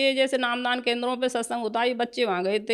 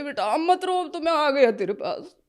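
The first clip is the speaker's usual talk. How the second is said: higher, emotional voice breaking off into a long pause; choked with emotion; 4 semitones higher than usual. Real, not acted. Devotee recalling her guru's comfort, choked with emotion. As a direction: overcome while passing on comforting words.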